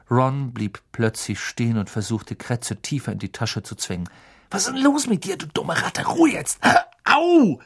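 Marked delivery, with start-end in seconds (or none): 4.5-7.6 irritated scolding. Acted. Ron scolding a biting rat.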